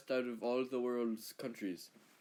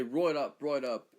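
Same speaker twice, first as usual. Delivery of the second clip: punched mock Australian accent; Australian catchphrase; 5 dB louder than usual. Shown as a demonstration. Australian quoting local saying, punched Australian accent. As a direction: call it out in broad Australian. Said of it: "we say".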